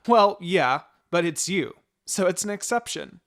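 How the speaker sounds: a hint of a cheeky little boy; lightly voiced kid, pleased with himself. Sasuke answers his babysitter, lightly voiced cheeky boy.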